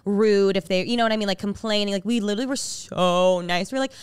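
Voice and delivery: ordinary talk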